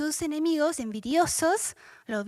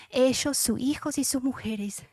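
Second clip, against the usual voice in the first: choked-up breathy reading; overcome, voice almost gone; moved to tears. Real, not acted. Preacher moved reading Daniel's rescue, choked whisper. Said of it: "Perdón que me emociono".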